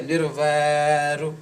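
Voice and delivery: Nirvairu said slowly with a light final u; short U ending. Shown as a demonstration. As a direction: hold the vai in Nirvairu, then add "ru". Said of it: "Similar U sound is here".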